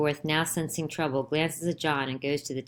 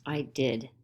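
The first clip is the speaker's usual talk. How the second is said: through his teeth; 3 semitones lower, 4 dB quieter than usual. A narrator's reading. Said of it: "through his teeth".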